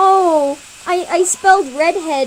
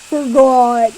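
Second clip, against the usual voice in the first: gruff boy attempt; 9 dB louder than usual. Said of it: "I can't do deep voices".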